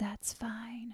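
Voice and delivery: put-on whisper. Retelling how Sid leaned over to Nancy: imitating a whisper. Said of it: "Sid leans over to Nancy and whispers".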